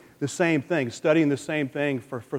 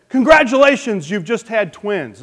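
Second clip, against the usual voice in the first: nurse announcing; 6 semitones higher, 9 dB louder than usual. Acted. Joke: nurse announces twins.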